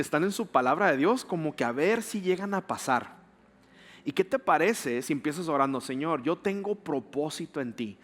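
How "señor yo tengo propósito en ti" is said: declarative prayer. Shown as a demonstration. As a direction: pray it out as a confident declaration. Leads the congregation in declarative prayer.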